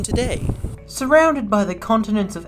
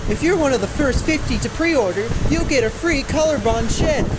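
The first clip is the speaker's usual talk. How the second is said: excited sales pitch; 5 semitones higher than usual. Acted. Infomercial pitch climax.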